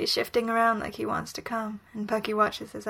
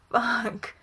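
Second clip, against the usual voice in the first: groaned. A narrator's reading. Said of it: "Bucky groans".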